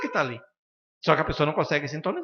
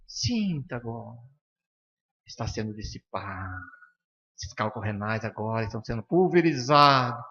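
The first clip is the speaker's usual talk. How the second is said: slow and softer, like gently hypnotising a patient; soft suggestive voice; 2 semitones lower than usual. Shown as a demonstration. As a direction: lull them into believing it, slowly. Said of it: "e aí você sugestiona".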